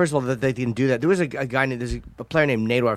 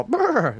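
mock brr noise; 12 semitones higher than usual. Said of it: "they instinctively go".

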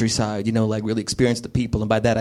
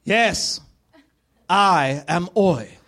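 higher, slow grandiose villain voice; ominous stranger; 6 semitones higher, slower than usual. Acted. Stranger answering to his name, theatrical menace. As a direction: announce yourself with hammy menace. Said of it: "he was like".

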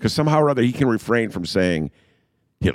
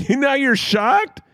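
incredulous shout; much slower than usual. Real, not acted. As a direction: yell it in mock disbelief. Ridiculing alderman's fake outrage.

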